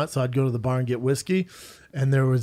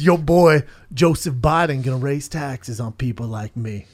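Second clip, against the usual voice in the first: put-on Southern boy; 3 semitones lower than usual. Drunk stranger complains about taxes, mock Southern. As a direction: lightly imitate a Southern drinker sounding off. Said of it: "real Southern boys".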